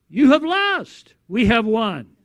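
high, ringing proclamation with falling endings; voice in lion's roar. Acted. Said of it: "in the lion's roar, there is a voice".

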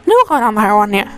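imitated judgy question with a punched start; mock someone sizing up an outsider; judgmental tone. Taiwanese local judging an outsider, mock judgmental. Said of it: "kalian kebayang lah ya dari nada gue".

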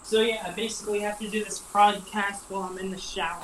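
echoey voice in the shower; talking from the shower with water running; over running shower. Real, not acted. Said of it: "I could hear the water running and the echo in your voice".

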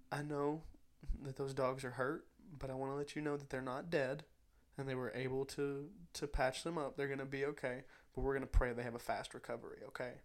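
put-on soft, gentle reassurance to a child; soft comforting voice. Whispering comfort in a child's ear, gently. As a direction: kneel and soothe a sad little girl.

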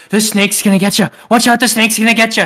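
lightly voiced creepy stranger waving a belt; a hint of a menacing drifter; creepy homeless guy. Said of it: "and just goes".

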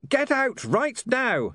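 high, slow yell to everyone; urgent yelled warning. Acted. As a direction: shout them out of the room. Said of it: "he yelled".

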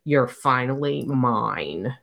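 lightly voiced gloating captor, taking his time; possessive alien male. Red male claiming the woman he caught, possessive. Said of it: "she hears the red male say".

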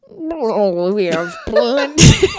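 loud, slow explorer voice; grand booming explorer; Nigel Thornberry. Acted. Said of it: "channeling my inner Nigel Thornberry".

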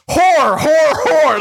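"Whore" for horror, shouted very high in one syllable; Southern mispronounced horror. Retold or imitated. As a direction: blurt "Whore" loud and high, the second syllable of horror lost. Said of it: "all of a sudden I was like".

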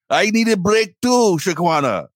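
high, slow mock complaint; imitating annoyed clerk. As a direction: plead it like a fed-up coworker. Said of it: "she was so pissed".

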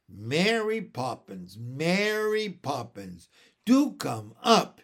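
slow, loud coaxing plea; pleading child. Acted. Michael pleading with Mary Poppins, a lightly voiced coaxing boy. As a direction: beg her to come up. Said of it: "interrupted Michael".

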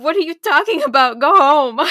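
loud, high-pitched retold scolding; play-acted indignant yell; mock exasperated rebuff. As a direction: send him packing, hammed up and loud. Acting out her exasperated rebuff.

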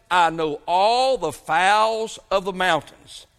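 drawn out, slow, weighty words of God; slow it right down and let it ring; slow solemn quote. Acted. Preacher reading God's word to the congregation, slow and solemn.

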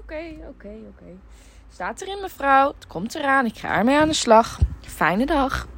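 customer service voice. Acted. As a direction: wrap up the call politely. Answering phone at pizza shop.

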